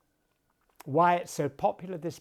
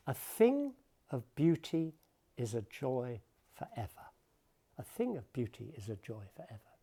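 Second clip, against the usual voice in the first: A thing of beauty is a joy forever, with the beat on thing and joy; natural spoken rhythm; 5 dB quieter than usual. Shown as a demonstration. Lecturer demonstrating the line's natural rhythm, beat on thing and joy. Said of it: "That's how we say it".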